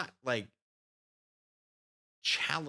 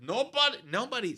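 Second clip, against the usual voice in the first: high stern drill sergeant voice; a hint of the drill sergeant; 11 semitones higher, 3 dB louder than usual. Mimicking the drill sergeant at the debriefing, high stern voice. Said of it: "sorry, I'm doing the voice again".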